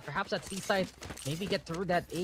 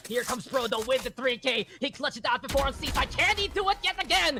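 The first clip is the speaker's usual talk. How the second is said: esports caster; 6 semitones higher than usual. Acted. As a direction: call the clutch, rising to a peak. Live esports play-by-play build.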